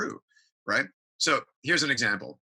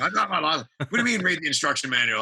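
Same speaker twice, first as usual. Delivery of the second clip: mock defensive husband; 5 semitones higher, faster than usual. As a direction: play the stubborn guy refusing help. Defensive husband refusing manual.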